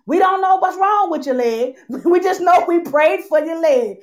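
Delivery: lightly voiced church aunt, amused; a hint of a fond older aunt; quoting Aunt Thelma. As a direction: mimic the aunt with a laugh. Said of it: "Aunt Thelma called me and said".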